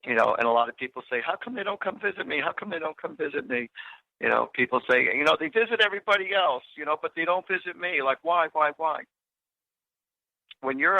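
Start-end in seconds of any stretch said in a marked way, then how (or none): 1.2-3.7 higher, softer plaintive quote; mock complaint. People asking about visits from lost loved ones, mock complaint. 5.4-9.0 higher-pitched plaintive quote; mock complaint. People upset that loved ones visit others, mock complaint.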